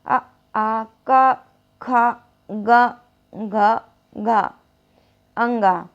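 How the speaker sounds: का, खा, गा, घा, अंगा spelled out slowly one by one; slow syllable drill. Shown as a demonstration. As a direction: drill the throat sounds slowly. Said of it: "कहाँ से आवाज़ आ रही है".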